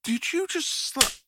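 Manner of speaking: high, startled question that breaks off; indignant shock after a slap; shocked disbelief. Acted. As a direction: catch yourself mid-word, stunned. Reacts to being slapped.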